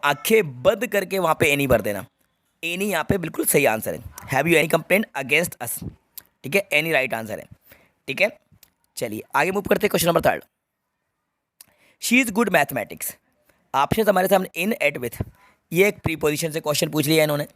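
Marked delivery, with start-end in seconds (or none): 4.3-5.7 slow reading. Shown as a demonstration. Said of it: "reads the answer sentence slowly". 12.0-13.1 slow reading. Shown as a demonstration. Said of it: "reads the question slowly".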